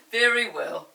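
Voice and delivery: loud, indulgent mother; mother letting the children go; amused mother. Acted. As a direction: grant permission with a chuckle. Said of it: "Mother laughed".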